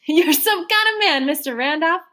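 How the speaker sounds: lightly voiced motherly woman, rising coaxingly; a hint of a hearty foster mother; coaxing landlady. Trotter coaxing Mister Randolph to have pie, lightly coaxing.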